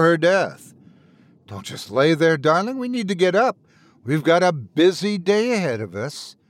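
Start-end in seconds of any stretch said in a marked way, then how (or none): 1.5-6.4 cheerful wife voice. Acted. Wife urging husband.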